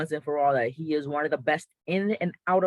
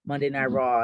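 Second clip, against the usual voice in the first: put-on a weak stab at a Scottish accent; lightly put-on Scottish accent, barely there; terrible Scottish accent. Commentator mocking a Scottish wrestler in a bad Scottish accent. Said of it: "I know that's a terrible accent".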